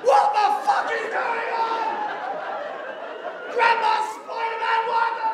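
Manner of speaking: high bewildered voice; baffled child. Retold or imitated. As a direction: ask it totally lost. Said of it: "He was like".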